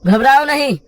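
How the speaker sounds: high, projected, confident reassurance; reassuring rescuer. Acted. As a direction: hearten a frightened man and lead him on.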